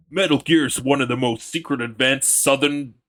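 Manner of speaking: put-on loud southern US accent. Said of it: "whenever I try to do the southern voice".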